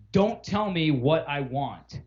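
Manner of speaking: slow, emphatic mock refusal; retold curt customer. Imitating customer rebuffing the rep, slow and curt. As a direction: space out each word like an order. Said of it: "the person said, and I quote".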